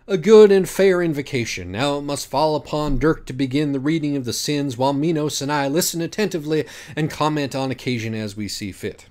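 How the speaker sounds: lightly voiced lofty orator; solemn invocation. Betancourt praises invocation.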